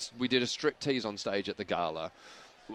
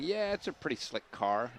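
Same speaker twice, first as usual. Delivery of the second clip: softer Canadian film-comic impression; Dan Aykroyd; 2 semitones higher, 5 dB quieter than usual. Comedian voices the actor in his head, soft impression. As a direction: play it as a Canadian impression, softly. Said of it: "I've got Dan Aykroyd going".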